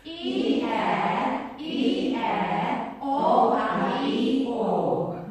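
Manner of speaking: belted vowels E, air, E, air, O, A, E, O, no consonants; loud vowels only. Shown as a demonstration. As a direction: call the vowels out loud with every consonant dropped. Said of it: "Try it".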